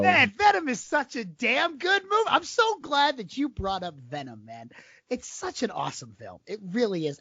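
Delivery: high-pitched, teasing over-the-top praise; mock gushing. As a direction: gush playfully to needle your co-host.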